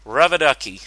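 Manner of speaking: loud playful squeaky-toy call-out; mock squeaky call. Fan reacting to a voice crack, loud playful call. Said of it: "I'll go".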